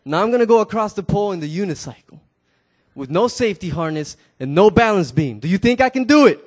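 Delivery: acrobat booming to the crowd; loud announcement. Acted. Tightrope walker challenging the crowd, loud call. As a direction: call it across the rooftops. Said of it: "and he says".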